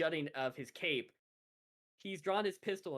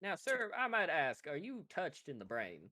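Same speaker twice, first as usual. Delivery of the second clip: put-on southern accent. Bounty hunter doubts the dragonborn's wits, light southern accent. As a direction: question him politely in a southern accent. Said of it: "his deep southern accent".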